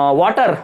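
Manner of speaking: वाटर in one piece, no gap between syllables; said without a break. Shown as a demonstration. Teacher contrasting it with split words, said unbroken. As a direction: run वाटर together as a single unit. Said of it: "एक साथ बोल दिया वाटर बिना रुके".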